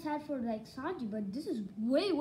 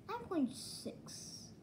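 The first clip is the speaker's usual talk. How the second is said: whispered rating; 7 semitones higher, 6 dB quieter, much slower than usual. Real, not acted. Giving a rating.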